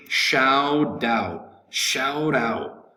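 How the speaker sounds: "shout out" run together as "shou-dout"; American linking. Shown as a demonstration. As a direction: soften the first T of "shout out" into a quick D. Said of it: "In American English".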